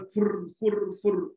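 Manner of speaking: "furr, furr, furr" puffing noise; quick repeated fluttering "furr"; imitated whoosh of escaping water. Shown as a demonstration. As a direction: mimic vapour puffing out in little bursts.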